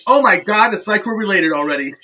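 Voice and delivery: loud "oh my God", then settling; mock-amazed phone outburst; retold excited exclamation. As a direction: exclaim it loudly, imitating her. Retold delighted reaction on phone.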